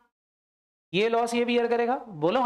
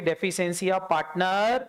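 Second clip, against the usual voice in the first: spelled out slowly for students to write; teacher dictating the term; slow dictation; much slower than usual. Shown as a demonstration. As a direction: say each word slowly and clearly. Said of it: "इसको बोलोगे".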